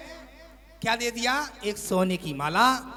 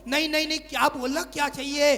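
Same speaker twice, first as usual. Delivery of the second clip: higher, sulky refusal; whiny wife; 5 semitones higher, faster than usual. Acted. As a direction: pout and push him away in a higher voice. Wife whines refusing husband.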